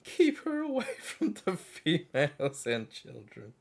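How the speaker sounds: slow, loud, booming command; mock grave warrior. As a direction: boom it like a wary warrior. Reading a warrior's line.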